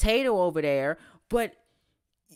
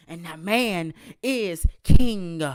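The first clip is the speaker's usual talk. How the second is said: Cole Train voice; 4 semitones lower, 5 dB louder, slower than usual. Pretend. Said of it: "in my Cole Train voice".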